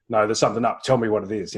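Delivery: firm, insistent demand to her son; pushy old self. Retold or imitated. Old pushy self demanding son tell her, insistent. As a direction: press him for an answer. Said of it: "previous versions of me would have said".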